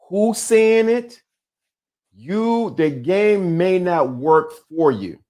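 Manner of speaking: slow, emphatic delivery; slow and precise. Shown as a demonstration. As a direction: lay it down slowly and deliberately. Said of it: "say it slowly and precisely".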